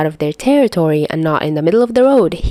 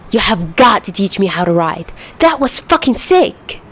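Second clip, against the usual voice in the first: excited. Acted. Chuya excited after the ride.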